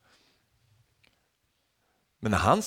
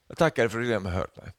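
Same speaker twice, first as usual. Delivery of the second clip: quick confident prayer; faster than usual. Retold or imitated. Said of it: "Vilken självsäker-, eller gudsäkerhet".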